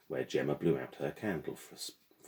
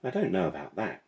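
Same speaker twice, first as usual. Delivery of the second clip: light, higher schoolgirl tone; coy classmate brushing it off; 4 semitones higher, 5 dB louder than usual. Acted. Voicing Gemma.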